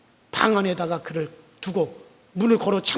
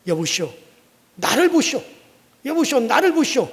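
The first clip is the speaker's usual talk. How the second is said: raised call, higher and louder; 3 semitones higher, 5 dB louder than usual. Acted. Pastor calling the lame man to look at him, raised voice.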